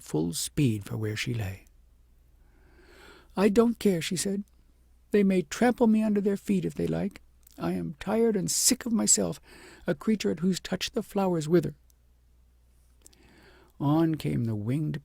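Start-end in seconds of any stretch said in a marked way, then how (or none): 3.4-4.0 defiant princess. A narrator's reading. Princess speaks, narrator voicing. 5.1-11.7 higher, louder, despairing princess voice; a tired, bitter young princess giving up; weary princess. A narrator's reading.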